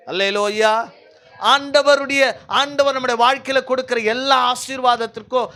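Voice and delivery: forceful preaching. Real, not acted. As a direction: drive it home to the congregation.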